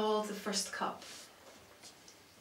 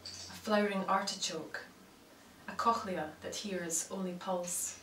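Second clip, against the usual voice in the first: measured recital with long pauses between phrases; poetry reading. Acted. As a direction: let each image land, then pause. Reads own poem aloud.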